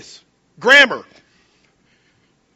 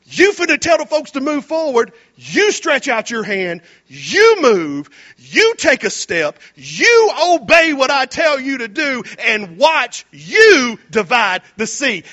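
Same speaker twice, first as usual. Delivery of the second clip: louder, firm orders; commanding God; 5 dB louder than usual. Acted. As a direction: drive each command home. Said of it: "And God goes".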